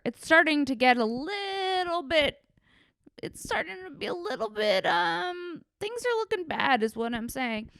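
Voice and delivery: rising into a loud, emotional rant; shouting. Real, not acted. Ranting to her podcast listeners about LA dating, shouting. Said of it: "Am I shouting? Yes, I am shouting".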